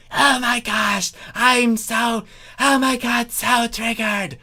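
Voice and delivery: high, affronted character voice; offended Chrysalis. A narrator's reading. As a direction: play her as scandalised and triggered. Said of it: "Chrysalis said".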